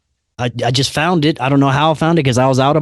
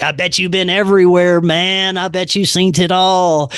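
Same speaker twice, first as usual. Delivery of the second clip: higher, gushing excitement; awed enthusiasm; 5 semitones higher than usual. Retold or imitated. Talking to a supposed angel, awed and excited. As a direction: marvel at him like he's an angel.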